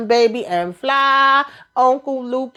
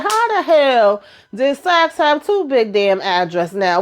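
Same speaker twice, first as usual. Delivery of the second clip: higher, slow, incredulous question; stunned disbelief; 4 semitones higher than usual. Real, not acted. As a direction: drag it out in disbelief. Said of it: "I said".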